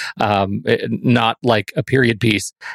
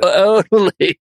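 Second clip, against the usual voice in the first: put-on high laughing Valley Girl "totally"; 8 semitones higher, 3 dB louder, slower than usual. Shown as a demonstration. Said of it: "You just totally did it".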